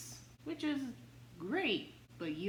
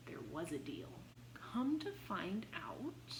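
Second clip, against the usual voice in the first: conspiratorial whisper; 6 dB quieter than usual. Pretend. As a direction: lean in and spill the secret. Revealing the secret deal.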